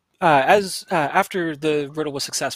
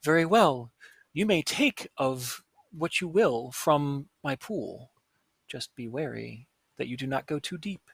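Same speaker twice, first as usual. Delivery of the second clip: gracious water spirit. Acted. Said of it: "gladly looks at you and says".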